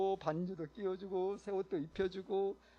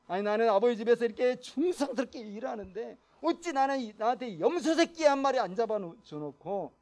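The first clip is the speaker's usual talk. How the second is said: a lightly voiced, grumbling resentful son; mildly acted indignant complaint; elder son's anger; 4 semitones higher, 5 dB louder than usual. Elder son complaining to his father, mildly acted resentment. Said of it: "크게 분노했죠".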